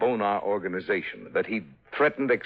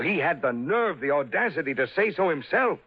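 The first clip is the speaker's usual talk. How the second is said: rising outrage; 6 semitones higher than usual. Acted. Father raging about son-in-law.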